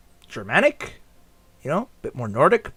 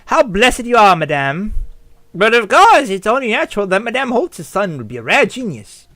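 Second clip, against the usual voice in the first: lightly acted high-society flattery; fawning guest; 4 semitones higher than usual. Gala guest flattering Madame Holtz, lightly gushing. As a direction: gush a little, higher pitched.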